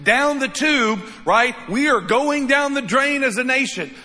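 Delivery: loud, high-pitched imitation of someone panicking; exaggerated worried outburst; mock freak-out. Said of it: "You might be freaking out".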